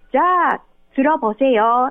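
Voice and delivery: 들어보세요 said tɯɾo-po-se-jo, stress on 어 rising; Korean model phrase. Shown as a demonstration. Teacher showing the radio host the line, clear model. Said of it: "韓国語一緒なんですよ".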